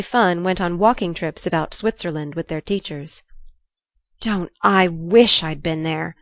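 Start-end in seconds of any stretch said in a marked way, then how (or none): 4.2-6.1 slow, mildly eager exclamation; wistful cry. Acted. Jo envying Laurie's school trips, wistfully exclaiming. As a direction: draw out the wish with feeling. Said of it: "cried Jo".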